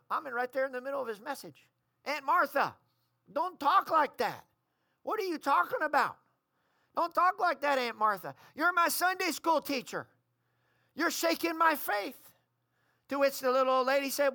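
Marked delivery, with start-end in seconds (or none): 2.1-12.3 higher-pitched, pleading reproach of an elder; upset protest. Retold or imitated. Niece objecting to her aunt during Bible study, upset protest.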